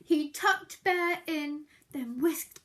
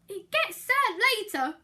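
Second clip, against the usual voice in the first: promise; 5 semitones higher, 6 dB louder than usual. Acted. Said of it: "Mouse promised".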